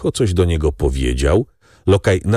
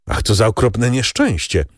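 exclaiming; 6 semitones higher than usual. A narrator's reading. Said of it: "wykrzyknął Maksymilian".

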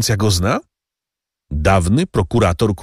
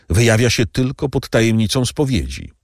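higher, pleading servant voice; slowing on the last words; anxious servant Bertuccio; 7 semitones higher than usual. A narrator's reading. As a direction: insist on your honesty to the count. Bertuccio speaks.

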